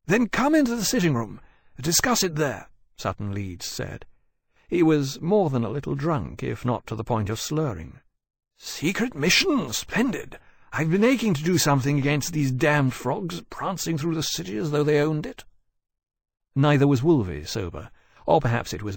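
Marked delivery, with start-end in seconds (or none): 0.1-2.7 tipsy host. Acted. Drunk Sutton Leeds invites. 8.6-15.4 put-on drunken glee. Drunk Sutton eager.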